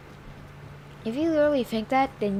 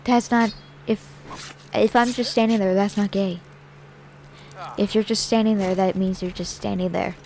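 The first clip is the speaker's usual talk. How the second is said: raised, exasperated voice; loud retort; 6 dB louder than usual. Retold or imitated. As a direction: push back hard and loud.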